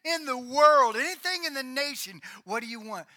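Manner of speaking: grand, expansive generosity; king offering anything. Acted. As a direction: play the lavish king making a huge offer. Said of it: "He says".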